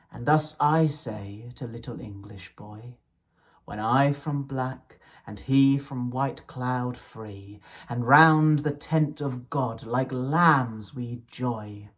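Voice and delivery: measured, lilting verse reading; poem recitation. Acted. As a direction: read the poem with gentle rhythm. Reciting Blake poems aloud.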